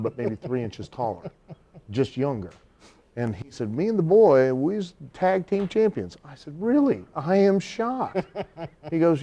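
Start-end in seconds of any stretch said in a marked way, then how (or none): 3.7-6.2 proud promoter. Retold or imitated. Promoter voiced, slow. 6.6-8.2 high, slow mock shock; deadpan mock surprise at the tag title news; sarcastic. Sarcastic reply in retold story.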